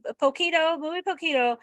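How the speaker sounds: put-on a light German accent on Spanish. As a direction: say poquito like a German speaker. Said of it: "it always comes out in a German accent".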